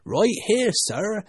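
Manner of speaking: high, loud servant answering the master; servant's voice. A narrator's reading. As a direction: call back as an eager servant. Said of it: "a voice she had never heard before".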